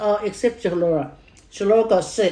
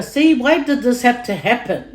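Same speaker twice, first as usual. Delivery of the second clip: retold anger; 4 semitones higher, 4 dB louder than usual. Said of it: "I got angry at the doctor".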